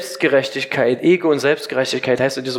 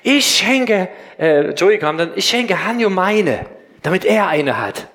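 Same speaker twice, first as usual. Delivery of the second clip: put-on proud child; slower than usual. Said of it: "so ganz stolz".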